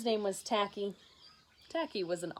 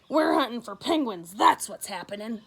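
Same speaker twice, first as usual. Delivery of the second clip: growling hunters; 7 dB louder than usual. Acted. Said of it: "They growled".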